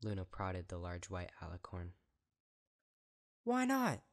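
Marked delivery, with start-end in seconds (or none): 3.4-4.0 much higher, loud furious cry; outraged shout; furious demand. A narrator's reading. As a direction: hurl it back at her sister. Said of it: "Celestia demanded furiously".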